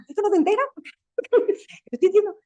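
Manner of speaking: reproche alto y fuerte, medio en broma; enfado imitado. Retold or imitated. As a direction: imita su enfado de antes con el equipo. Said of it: "entonces me enfadaba". (jefa impaciente con jóvenes que no se enteran, imitando su enfado)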